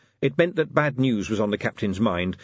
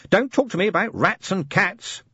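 tiny imp voice; 11 semitones higher, 3 dB louder than usual. Acted. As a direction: sigh into it like a tiny creature. Imp speaks.

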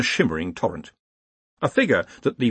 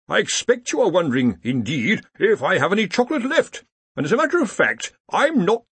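happy gloating; 9 semitones higher than usual. A narrator's reading. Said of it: "said the dean happily".

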